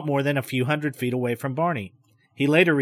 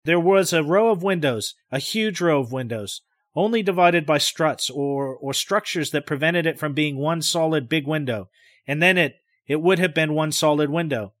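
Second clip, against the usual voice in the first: precise. Acted. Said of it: "he takes care to be extremely precise".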